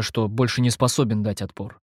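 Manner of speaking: plain reading voice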